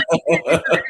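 a real burst of laughter; loud laugh. Real, not acted. Laughing at her own realization.

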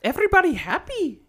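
a high, put-on Russian-tinged clown voice; mock creepy clown. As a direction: sing it out like a creepy clown host. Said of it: "Why is it so Russian?".

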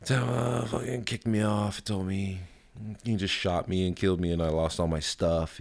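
mock the upset little boy's complaint; imitating crying son. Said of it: "So he starts crying, right? And he's like".

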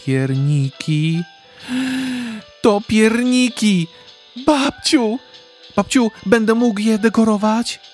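put-on high, loud delighted child voice; happy boy. A narrator's reading. Boy spotting fresh gingerbread, delighted high squeal. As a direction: squeal with joy over the gingerbread. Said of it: "zapytał szczęśliwy chłopiec".

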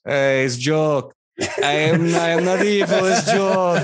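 high-voiced talking skull in a put-on voice; jokey skeleton. Skeleton reassuring the room it's not evil, jokey. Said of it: "And then the head goes".

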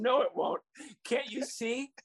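high, hammed-up blubbering; mock sobbing. Coach fake-sobs as kids pat his back, high blubbering. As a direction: whimper like a beaten man. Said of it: "I'm sobbing".

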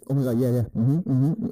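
lightly imitated eager, hurried agreement; mock over-eager listener. Man mocking over-attentive listening to women, mildly over-eager. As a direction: play someone too keen to respond. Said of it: "I'm not all the way like".

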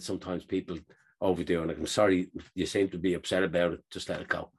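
low-pitched, soothing retold voice; calm reassurance. Airline worker telling upset passenger to let it go, calm.

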